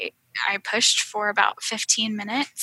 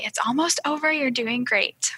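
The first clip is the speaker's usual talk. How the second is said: higher, soft and slowed encouragement; gentle reassurance; 3 semitones higher, 4 dB quieter than usual. Retold or imitated. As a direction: soothe her through the pain. Husband coaching her in labor.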